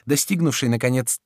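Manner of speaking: ordinary delivery, nothing marked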